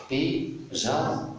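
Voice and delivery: "Pyja-" in two detached syllables, high; split into syllables. Shown as a demonstration. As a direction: sound out "Pyja-" with a gap between syllables. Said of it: "je découpe le mot". (« Pyja- » en syllabes bien détachées)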